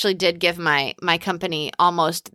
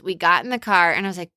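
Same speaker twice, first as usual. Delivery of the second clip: normal talking voice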